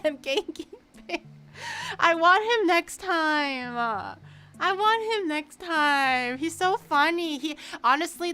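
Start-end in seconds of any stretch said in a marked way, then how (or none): 2.0-3.8 slow insistent. Real, not acted. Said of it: "repeated slowly". 4.6-6.4 slow insistent. Real, not acted. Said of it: "repeated slowly".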